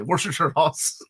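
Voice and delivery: Worcestershire slurred to "worship-sher", with an R; winging it. Shown as a demonstration. Explaining how Kentucky says it, winged pronunciation. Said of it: "we kinda wing how we say".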